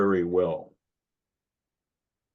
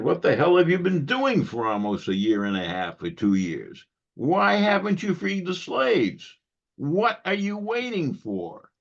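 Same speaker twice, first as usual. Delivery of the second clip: mock angry demand; 9 semitones higher than usual. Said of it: "Greeley wrote an angry editorial".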